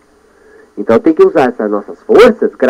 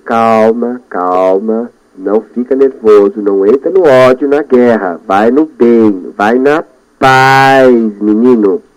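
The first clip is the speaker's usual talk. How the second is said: calming self-talk; much slower than usual. Shown as a demonstration. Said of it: "Eu falo assim comigo".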